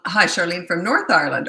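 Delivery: light, playful Irish lilt; Irish accent. Pretend. Host greeting viewer from North Ireland, in an Irish accent. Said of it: "I got a couple of Irish here".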